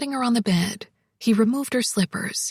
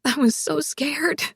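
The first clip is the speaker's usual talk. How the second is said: watery voice; 4 semitones higher than usual. A narrator's reading. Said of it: "in a watery voice".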